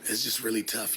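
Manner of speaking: normal talking voice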